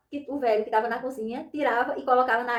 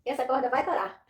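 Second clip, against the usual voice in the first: laughing. Retold or imitated. Laughing defiance at uncle's warning.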